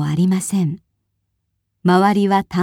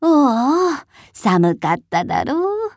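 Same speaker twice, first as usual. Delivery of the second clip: higher coo, then tender; old woman cooing; 7 semitones higher, slower than usual. A narrator's reading. Old woman greets the baby, a lightly voiced coo. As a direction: coo over the cold baby like a grandmother. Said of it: "と言って".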